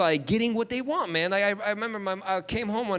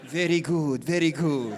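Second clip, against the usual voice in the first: satisfied mom; 6 semitones lower, slower than usual. Retold or imitated. Mom approving.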